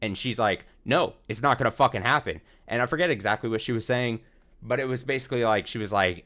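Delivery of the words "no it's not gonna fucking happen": lightly voiced stern refusal; mildly stern, emphatic quote; stern retelling. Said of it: "like, more stern".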